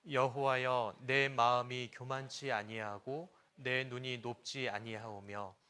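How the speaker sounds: loud, slow, measured reading aloud; loud congregational Bible reading; scripture reading. Shown as a demonstration. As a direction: read the verse out firmly, spoken not sung. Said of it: "읽어보겠습니다".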